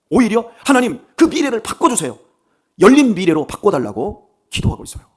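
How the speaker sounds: loud, high-pitched declaration of faith; fervent preaching. Acted. Preacher to congregation, shouting his faith at full force. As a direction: proclaim it to the whole church at full force. Preacher stressing open future.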